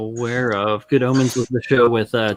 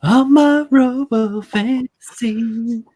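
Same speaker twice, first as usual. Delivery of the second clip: goofy announcer; 11 semitones higher, 5 dB louder, much slower than usual. Pretend. Silly sung-out announcement.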